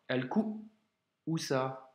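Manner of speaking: Al-ku'usa very slow, a catch between the two u; slow Arabic reading model; slow glottal block. Shown as a demonstration. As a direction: split the u sounds in Al-ku'usa with a stop. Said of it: "Blocage encore".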